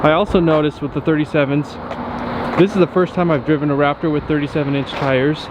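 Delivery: slightly winded, catching breath; talking while out of breath. Real, not acted. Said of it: "sorry if it sounds like I'm out of breath".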